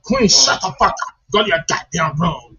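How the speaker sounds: imitating someone yelling at Queen; brief mock yell to send Queen away; loud scolding. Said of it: "you get loud when you talk".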